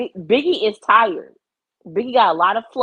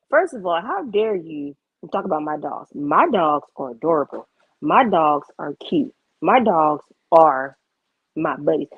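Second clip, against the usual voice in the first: lower, deliberate scolding; indignant; 4 semitones lower than usual. Real, not acted. Dog owner telling off whoever talked about her dogs, indignant. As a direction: lay it down low and emphatic, word by word.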